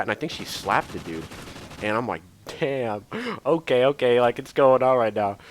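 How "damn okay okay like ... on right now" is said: louder, higher retold shock; hyped reaction. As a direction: react loudly as trouble kicks off. Reacting as the fight starts.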